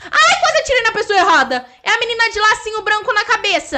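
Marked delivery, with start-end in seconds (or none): 0.0-1.6 laughing relief. Real, not acted. After nearly shooting the wrong player, laughing relief. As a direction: laugh through the words.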